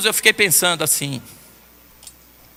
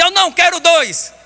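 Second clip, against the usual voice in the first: higher, slow stubborn refusal; child refusing; 9 semitones higher, 4 dB louder, slower than usual. Retold or imitated. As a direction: drag out the no like a sulky child. Granddaughter refuses slowly.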